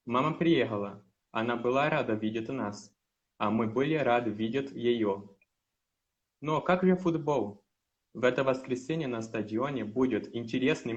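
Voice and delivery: steady, careful read of a Russian story; reading aloud. Acted. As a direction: read the text aloud clearly for the teacher. Reads Russian text aloud. (leitura em voz alta, cuidadosa)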